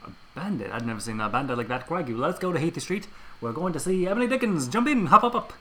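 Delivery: lightly hammed British cabbie; jolly British accent, rising at the end; Cockney coachman accent. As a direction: play a cheery British coach driver. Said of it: "put on accents".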